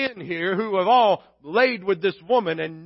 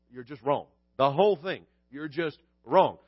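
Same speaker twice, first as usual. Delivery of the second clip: blunt dismissal; 6 semitones lower than usual. Retold or imitated. Jesus' blunt reply imitated.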